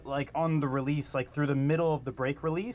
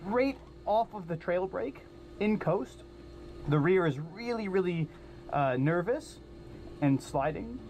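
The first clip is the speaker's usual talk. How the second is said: over the radio. Real, not acted. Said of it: "you can listen in on the radio".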